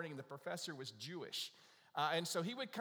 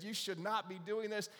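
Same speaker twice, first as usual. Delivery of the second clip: mock-stern telling-off, pitched up; imitated scolding; 4 semitones higher than usual. Professor railing at the Easter Bunny, mildly scolding. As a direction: imitate an indignant professor, higher voice. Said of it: "he began to rail at the Easter Bunny".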